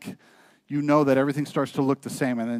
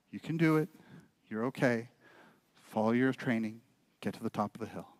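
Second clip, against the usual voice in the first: much softer, calm reassurance from out of sight; soft hidden voice; 5 semitones lower, 8 dB quieter than usual. Acted. Father's unseen voice calming his lost son, soft and low. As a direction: hush it like a voice from the trees.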